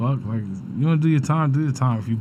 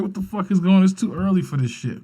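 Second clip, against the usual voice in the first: retold bewilderment; 6 semitones higher than usual. Retelling his startled reaction.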